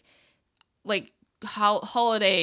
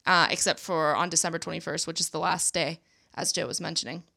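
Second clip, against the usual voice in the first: creaky vocal fry voice. Real, not acted. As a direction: let the voice crackle into fry. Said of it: "a lot of vocal fry going on right now".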